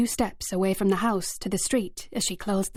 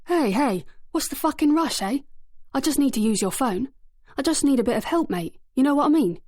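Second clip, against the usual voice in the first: higher, pushy mock-friendly menace; aggressive thug; 6 semitones higher than usual. A narrator's reading. Ringleader pressing the boy who won't help, pushy and rising. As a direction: crowd him with fake friendliness. Thug grabs boy's shoulder.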